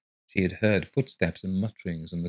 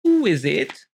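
drowsy voice, higher, calling out; 10 semitones higher, 6 dB louder than usual. Acted. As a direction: call out half asleep through a door. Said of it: "A drowsy voice called".

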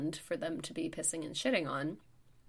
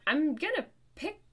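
high, loud, defensive protest; retold flustered self-defence; 7 semitones higher, 8 dB louder than usual. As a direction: protest earnestly, pitch leaping up on the first words. Retold defence to angry stranger.

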